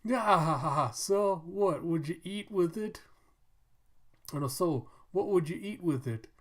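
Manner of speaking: laughing townsman. Pretend. Townsfolk joke about teeth.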